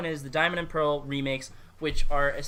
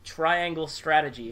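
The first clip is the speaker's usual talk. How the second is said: deadpan letdown; slower than usual. Retold or imitated. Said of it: "and then it's like".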